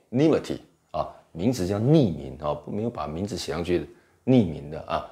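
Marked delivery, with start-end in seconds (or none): 0.1-0.6 nimity with NI raised and stretched; stress on first syllable. Shown as a demonstration. Teacher points out where the stress falls, NI stressed in nimity. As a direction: lean on the NI of nimity. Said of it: "重音节在后面".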